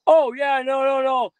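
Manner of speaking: a flustered mother quickly retracting; flustered mom. Son retells mom's embarrassed refusal, flustered and loud. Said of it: "And she's just like".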